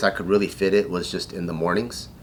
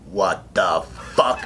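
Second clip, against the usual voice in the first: lightly voiced drill instructor, drawn out; slow, low imitation of a drill instructor; frog voice; 4 semitones lower, slower than usual. Drill instructor catches recruit in the shower, mock frog voice. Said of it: "everyone has that voice, that frog voice".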